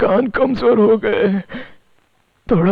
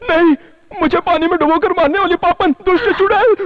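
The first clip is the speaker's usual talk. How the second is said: alarmed accusation; 7 semitones higher than usual. Acted. Accuses woman of drowning him.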